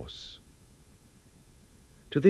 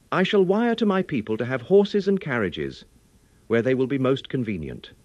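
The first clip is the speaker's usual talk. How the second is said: higher, louder eager nobleman voice; a keen young lord, pitched up and loud; Lord Godalming; 4 semitones higher, 5 dB louder than usual. Acted. Godalming offering his help to the group, higher and louder.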